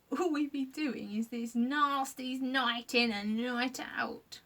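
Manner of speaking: slow, lightly voiced creaker; a hint of a tired little monster; creature voice. Gruff agreeing with the others, slow. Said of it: "agreed Gruff".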